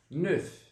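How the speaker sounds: neuf ending in a clear F; neuf, sounded F. Shown as a demonstration. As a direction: let the F out at the end of neuf. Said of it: "esse F ele vai sair".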